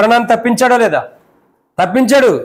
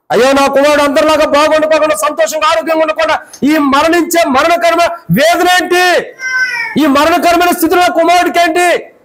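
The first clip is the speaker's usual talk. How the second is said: grieving father; 6 semitones higher than usual. Acted. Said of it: "అని తండ్రిలో వేదన ఉంది".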